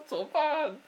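high, loud panicked cry. Retold or imitated. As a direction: squeal it like you're trapped. Panic caught in family fight.

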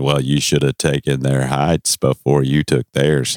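John Wayne drawl. Pretend. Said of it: "Clint Eastwood kind of talk".

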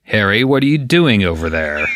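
slightly evil voice. Shown as a demonstration. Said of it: "putting a slightly evil tinge to your voice".

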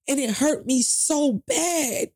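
fighting tears as she remembers; emotional. Real, not acted. Telling the host about the lost interview, emotional. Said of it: "forgive me, I'm getting emotional".

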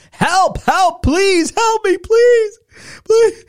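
high, desperate shouted cries; frantic cries for help; crying for help. Retold or imitated. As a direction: scream for help as you're beaten. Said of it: "by cries for help".

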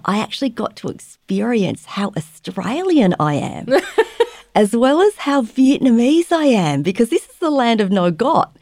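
laughing lightly. Real, not acted.

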